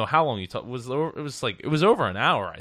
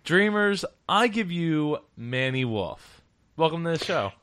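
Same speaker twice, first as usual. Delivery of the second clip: show intro; 3 semitones higher, slower than usual. Acted. Podcast host presenting today's guest to the dreamers, announcer intro. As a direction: present the guest with big, stretched emphasis.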